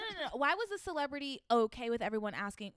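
hoarse, scratchy voice; raspy voice. Real, not acted. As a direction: rasp through the question. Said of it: "I'm getting raspy".

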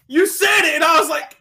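loud, high excited yell; excited shout. Real, not acted. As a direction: blurt it out in delight. Excited laughing retelling, shouting.

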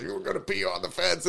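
high-pitched imitation of a heckler; squawked retold accusation; mock yelling. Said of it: "getting yelled at by the homeless guy".

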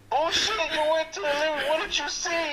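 high, cracking-up quote, barely holding it together; laughing accusation. Retold or imitated. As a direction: ask it while you burst out laughing.

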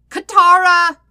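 calling out. A narrator's reading. Sokka calling his sister from the hallway, loud call. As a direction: shout her name down the hallway. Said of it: "he called down the hallway".

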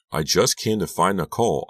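through gritted teeth, tense. Acted. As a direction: force it through clenched teeth. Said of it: "through gritted teeth".

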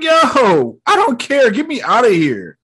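high, urgent comic plea; mock panic. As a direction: imitate someone desperate to leave. Acting panicked plea to escape.

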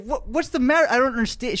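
high-pitched imitation of an upset date; exasperated, high mock protest; upset demand. Acted quarrel, date demanding reasons.

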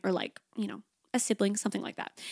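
soft whispered afterthought; whispered aside. Real, not acted. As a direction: drop to a whisper for the list. Trailing aside about who to tell.

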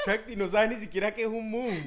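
high laughing squeal of disbelief; laughing tease. Real, not acted. Teasing co-host, laughing high at her ignorance.

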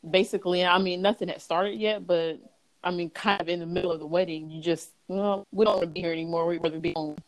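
muffled underwater phone sound. Real, not acted. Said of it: "It sound like you're underwater".

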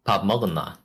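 learner copying a Gyeongsang accent; earnest try at Korean country accent; attempted Gyeongsang accent. Shown as a demonstration. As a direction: carefully imitate the Gyeongsang dialect. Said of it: "trying my hardest to actually say".

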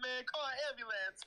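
hamming up the random voice from the game; mock voice. Quoting the game's voice, a high hammed-up voice. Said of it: "this random fucking black guy voice".

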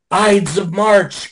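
slow, drawn-out mock prophecy; lightly voiced creepy guy, slowly; ominous warning. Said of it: "starts pointing".

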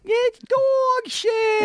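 put-on very high, slow shouted child voice; shouting kid voice. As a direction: shriek it like a tiny kid. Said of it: "kid's got the New York accent".

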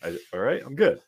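squeaky wounded whine; high mock hurt voice.

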